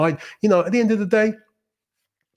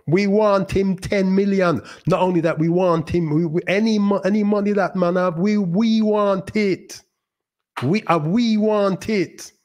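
mock Caribbean accent; 7 semitones higher than usual. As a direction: ham up a Caribbean accent, stretching every word. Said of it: "Probably not in that accent".

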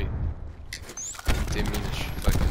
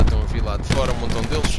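loud warning; 7 dB louder than usual. Real, not acted. Warning of many enemies.

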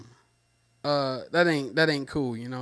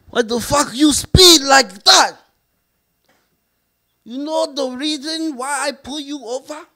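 high, shouting cop with a mock Asian accent; 8 semitones higher, 4 dB louder than usual. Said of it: "He got the Asian accent".

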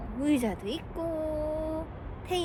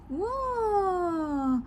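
slow amazed wow; 3 semitones higher, 4 dB louder, much slower than usual. Real, not acted. Marveling with baby.

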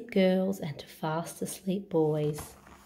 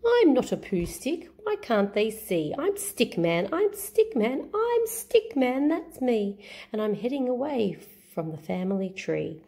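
Stick Man voice; 3 semitones higher than usual. Acted. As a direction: chant the refrain brightly, stretched out. Stick Man's refrain.

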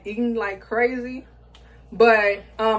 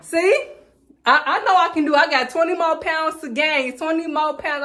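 thrilled; 6 semitones higher than usual. Real, not acted. Scale shows weight gain, thrilled.

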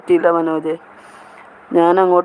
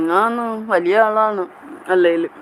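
playful boast; 3 semitones higher than usual. Pretend. Host claiming to be a big person, playfully boasting. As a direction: stretch ആളാണ് out high, then let it fall.

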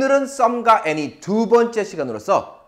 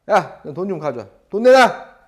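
a lightly voiced thug demanding cash, louder at the end; playful bully shakedown; teacher hams up a bully demanding money from a student; mock bully; 4 dB louder than usual. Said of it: "제가 좀 이렇게 불량배예요".

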